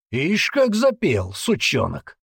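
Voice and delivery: mocking sneer. Sergeant mocks the teen.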